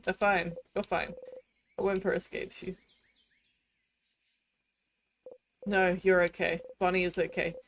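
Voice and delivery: shaky, breathless calming after trauma; panicked self-soothing. Acted. Hero after the loop trying to calm down, panicked. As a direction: talk yourself down from panic.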